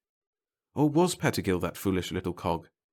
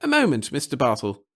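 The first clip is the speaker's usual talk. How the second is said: high, louder call after him; 5 semitones higher, 5 dB louder than usual. Acted. Pettigill calls Bartle back, high and loud. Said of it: "the little man called".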